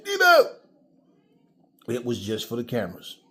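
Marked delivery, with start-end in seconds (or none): 0.0-0.5 high, loud mocking call; mimicking a rival shouting for the camera. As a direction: belt out the name like a hyped showman. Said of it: "when the con man is jumping out of that Jeep".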